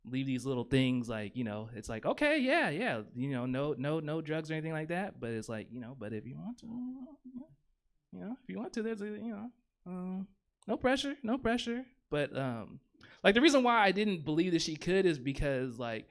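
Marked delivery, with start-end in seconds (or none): 2.1-5.2 fake agreeable. Mock agreeing with wife. 6.0-11.8 gentle coaxing. Retold or imitated. Coaxing wife, high soft voice.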